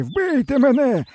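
calling out. A narrator's reading. Abandoned man calls after thieves, desperate cry. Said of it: "Я почав гукати".

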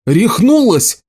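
a furious high yell. A narrator's reading. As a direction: bellow it at her as she fights. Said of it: "заорал он".

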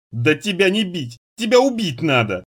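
slowed, lightly tearful reproach; a touch of sobbing. Acted. Girl sniffles at the boy after beating him, mildly tearful. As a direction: sniffle the words out half-crying. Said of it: "всхлипнула Надя".

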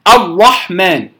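الرحمن with the ra locked hard, slowly; ra held too hard. Shown as a demonstration. Teacher showing the wrong tight ra, slow. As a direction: clamp the tongue on the ra of الرحمن. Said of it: "وهذا أيضًا خطأ".

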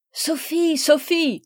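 high, loud call across the garden; girl calling a friend from afar. Acted. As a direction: call her name to fetch her. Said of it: "cria Camille".

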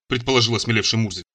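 usual speaking voice

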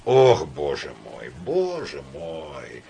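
low, very slow sigh of dismay; slow drawn-out sigh. Acted. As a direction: groan it out wearily. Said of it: "вздохнул Самойленко".

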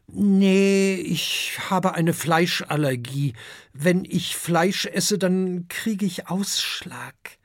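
put-on high child-dragon voice; young dragon Oskar. A narrator's reading. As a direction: explain it slowly in a high-pitched kid voice. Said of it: "antwortet Oskar". (hohe Drachenkinderstimme)

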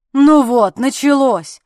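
loud exasperated exclamation; jealous outcry. A narrator's reading. Jealous father complaining to his wife, loud and exasperated. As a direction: burst out loud in jealous protest. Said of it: "вскричал ревнивый родитель".

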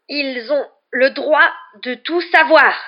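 gasped out slowly, high and loud; breathless, effortful insistence; panting. A narrator's reading. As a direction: force it out in bursts while straining. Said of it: "haleta Lupin".

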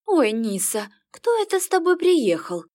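startled and nosy; surprised. Acted. Mother surprised by stranger.

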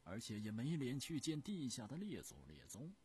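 a mild sneer that turns resolute; cold sneer. Acted. Yan Xun scoffing at the frightened Li, lightly sneering then resolved. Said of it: "严勋冷笑着说".

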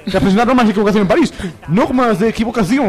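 put-on French accent. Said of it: "Haz, haz acento francés".

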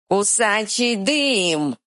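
slow growling troll warning. Acted. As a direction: growl it out slowly. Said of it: "прорычал мне Эр".

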